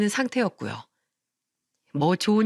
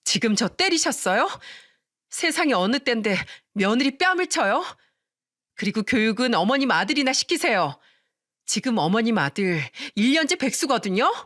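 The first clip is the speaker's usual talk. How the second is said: shrieking in fury; 3 semitones higher than usual. Acted. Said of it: "악을 쓰면서 소리쳤습니다".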